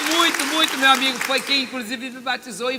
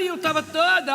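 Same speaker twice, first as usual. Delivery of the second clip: ordinary talk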